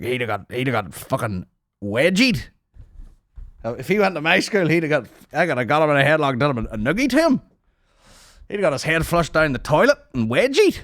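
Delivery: high, loud schoolyard boast; mock tough guy. A forty-five-year-old commenter boasting about bullying the guest, in a high mock voice. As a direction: brag like a playground bully, hammed up. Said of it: "everyone's like".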